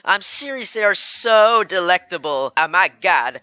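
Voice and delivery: over-excited gushing with stretched words; gushing dessert fan. Acted. Fan raving to a stranger about desserts, hammed-up gushing. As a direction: rave about it, leaning hard on "so".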